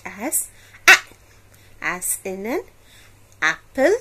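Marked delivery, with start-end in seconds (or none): none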